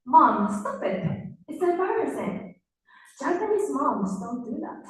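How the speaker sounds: put-on whiny high kid voice, slowed at first; embarrassed little girl. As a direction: sound like an embarrassed child. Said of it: "I said".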